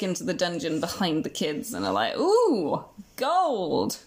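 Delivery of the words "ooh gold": excited gasp. Retold or imitated. Men spotting gold.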